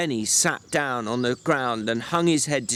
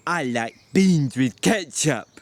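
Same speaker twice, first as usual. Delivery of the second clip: put-on Lenny's slow childlike voice. A narrator's reading. Lenny asking George about supper, slow and childlike. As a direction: plead like a slow, simple giant.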